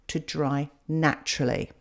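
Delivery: "naturally" set apart and said deliberately; stress on NATURALLY. Real, not acted. Art tutor advising viewers how to dry paintings, stress on "naturally". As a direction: put the emphasis on the word "naturally". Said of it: "I put the emphasis on the word naturally".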